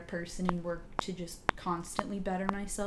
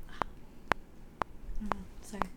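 choked-up, slow, near-whispered words; fighting back real tears mid-story; getting teary; 5 dB quieter, much slower than usual. Real, not acted. Telling friends about her youth leader, choked up with tears. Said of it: "I might get all teary".

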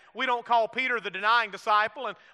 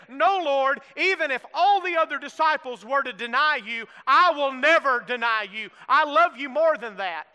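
boasting Peter; 2 semitones higher, 4 dB louder than usual. Acted. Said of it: "Peter boasted and said".

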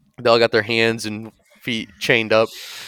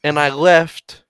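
cocky Boston bro bragging, slowing down; Boston Guido voice; 4 semitones higher than usual. Retold or imitated. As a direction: brag like a drunk Southie bro. Boston Guido brags to group.

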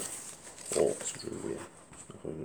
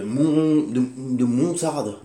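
slow emphatic; 5 semitones higher, 6 dB louder, much slower than usual. Shown as a demonstration. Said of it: "entre la montagne et la moutarde".

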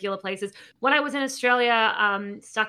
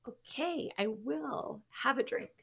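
small, soft, slow voice; demurely accept, trailing down to very quiet; coy acceptance; 12 dB quieter, slower than usual. Retold or imitated. Customer accepts free drink from bartenders, coyly.

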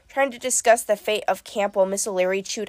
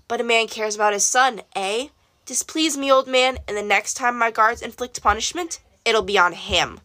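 lightly voiced tyrant, cold and pleased; king condemning Daedalus to his maze; cruel king. King threatens the boy.

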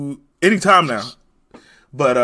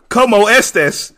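slow, hammed-up Spanish accent; mock Spanish accent; 3 dB louder, slower than usual. Podcast host does his impression to friends in a mock Spanish accent. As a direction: drag out the Spanish greeting in a jokey Mexican accent. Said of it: "Here's my impression".

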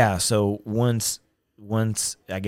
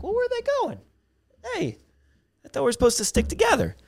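very high, squeaky comic protest; exaggerated falsetto worry; mock alarm; 3 dB louder, faster than usual. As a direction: cry out like you've been left behind. Acting out his alarm at being left.

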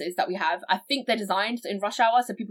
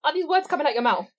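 incredulous; 11 semitones higher than usual. Real, not acted. Outraged rant.

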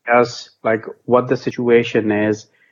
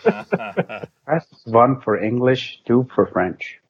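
phone menu voice; 3 dB quieter, much slower than usual. Pretend. Mock phone menu options.

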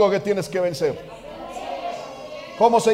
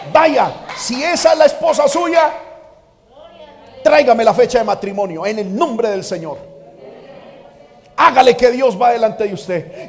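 father's urging. Retold or imitated. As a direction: urge him on like a confident dad. Father voiced urging son.

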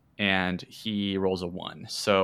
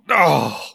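despairing groan; 7 semitones higher, 8 dB louder than usual. A narrator's reading. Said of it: "takes his head in his hands and goes".

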